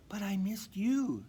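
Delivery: put-on high, heartfelt young reindeer; tender admission; Dasher's voice. A narrator's reading. Dasher telling her family she missed them, high and tender. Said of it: "she said".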